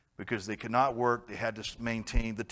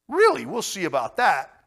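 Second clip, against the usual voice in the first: defiant disbelief; 6 semitones higher, 7 dB louder than usual. Retold or imitated. Abram answers news of capture.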